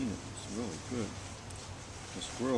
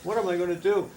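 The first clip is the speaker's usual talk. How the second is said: higher, louder, a touch of mock crying; crying bunny; 6 semitones higher, 9 dB louder than usual. Grandpa voicing Thumper for grandson, mock crying. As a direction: play the hurt bunny whimpering. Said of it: "And he started to cry".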